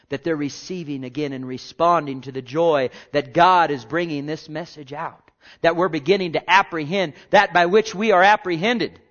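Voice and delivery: fervent preaching. Real, not acted. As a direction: preach it with swelling conviction. Preaches with rising force.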